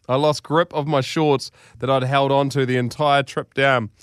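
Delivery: measured, theatrical read-aloud; deliberate storytelling delivery; story narration. A narrator's reading. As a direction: read it like a grand tall tale.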